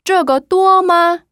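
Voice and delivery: 这个多吗 with 多 high and level, slow; 这个多吗 syllable by syllable, 多 kept flat; Mandarin model sentence. Shown as a demonstration. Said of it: "일성으로 해주셔야 돼요".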